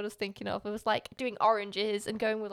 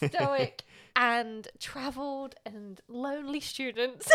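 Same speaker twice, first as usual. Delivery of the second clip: laughing; 2 semitones higher, slower than usual. Real, not acted. Laughs through mock description.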